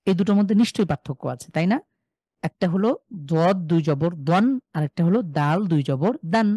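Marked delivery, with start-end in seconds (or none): 3.1-4.4 দন said thick with rounded lips, full in the mouth; দন as a thick Arabic ض; heavy Arabic dad. Shown as a demonstration. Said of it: "আরেকটা একটু গোলাকার করে আমরা মুখের ভেতরে". 4.7-6.5 দান as a light, ordinary Arabic দ; দান as a normal Arabic د; plain Arabic dal. Shown as a demonstration. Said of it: "একটা স্বাভাবিক".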